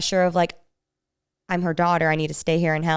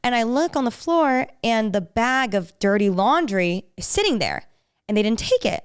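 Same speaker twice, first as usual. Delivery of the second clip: ordinary delivery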